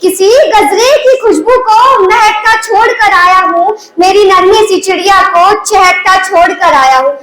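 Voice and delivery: recited verse, each line ending drawn to a cadence; patriotic verse recitation. Acted. Soldier's verse to Mother India, declaimed as patriotic poetry. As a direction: declaim it in measured, lilting lines.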